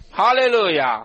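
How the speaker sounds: loud, high cry of praise; hallelujah shout. Real, not acted. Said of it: "我们要发出极其千万的哈利路亚".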